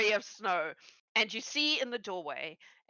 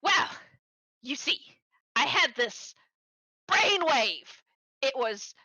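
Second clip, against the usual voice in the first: Styx the goblin inventor; 3 semitones higher than usual. Acted. Styx explaining his battle chickens to Angeline, excitedly. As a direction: proudly explain the brainwave. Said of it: "And Styx goes".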